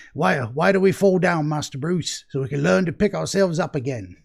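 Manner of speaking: put-on a faint, half-hearted British accent, quoting Michael Caine; lightly put-on British accent, barely shifted from his own voice; horrible British accent. Podcast host quoting Batman's butler in a weak British accent. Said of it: "my horrible British accent".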